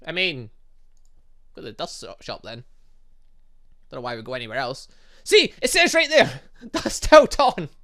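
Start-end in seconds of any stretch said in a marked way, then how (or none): 5.2-7.7 high, loud, laughing protest; loud vindicated exclamation. Real, not acted. Player spotting the shop's real name on screen, loudly vindicated. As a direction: point it out loudly, laughing in disbelief. Indignant at the shop sign.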